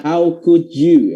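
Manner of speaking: slow, emphatic "How could you"; mock-indignant, drawn-out line; demonstrated anger. Shown as a demonstration. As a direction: act out mild outrage slowly. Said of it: "Mas Haris emosi nih".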